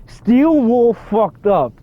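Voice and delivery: high, drawn-out, word by word; slow emphatic repeat. Real, not acted. Player repeating the verdict on the developers, slow and emphatic.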